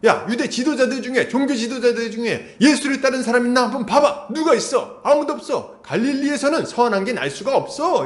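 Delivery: mock-indignant scolding of the servants; angry Pharisees. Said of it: "바리새인들이 화가 나잖아요".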